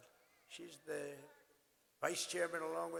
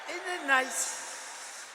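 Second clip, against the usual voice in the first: very slow, higher, stretching "Isn't it nice?" out; smug drawn-out question; 10 semitones higher, 8 dB louder, much slower than usual. Real, not acted. Speaker milking the crowd over not needing a teleprompter, smug and drawn out. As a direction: savor each word to milk the applause. Repeats line, savoring the boast.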